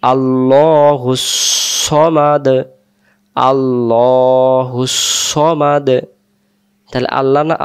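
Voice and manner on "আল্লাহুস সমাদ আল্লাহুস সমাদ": slow, drawn-out chanted recitation; Quran recitation. Shown as a demonstration. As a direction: intone each word slowly and melodically. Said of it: "এখানে আমরা বলবো".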